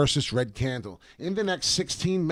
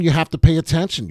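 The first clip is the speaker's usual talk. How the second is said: louder, urgent warning; pressing warning; 3 semitones higher, 7 dB louder than usual. Real, not acted. Vlogger warning viewers about the chart, loud and urgent. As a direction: drive the warning home.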